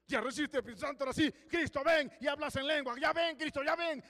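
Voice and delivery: high mock calling for Christ to come; mock eager plea. Preacher mimicking believers begging Christ, high mock plea. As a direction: parody an impatient believer.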